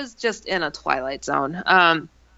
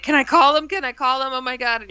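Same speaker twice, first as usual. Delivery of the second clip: higher, eager imitation of excited friend; really worked up; 5 semitones higher than usual. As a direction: plead in a raised, worked-up voice. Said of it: "she was just really worked up".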